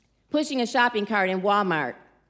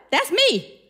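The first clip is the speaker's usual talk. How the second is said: laughing; 5 semitones higher than usual. Retold or imitated. Mother surprised, laughing at herself.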